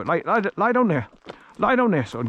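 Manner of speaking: high coaxing to dog. Real, not acted. Owner telling his dog to lie down, high coaxing voice. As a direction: coax him down in a lifted voice.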